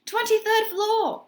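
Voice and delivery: high, slow, loud yell. A narrator's reading. Mister Music shouting his floor to Tony. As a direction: stretch it out as a shout. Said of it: "yelled Mister Music".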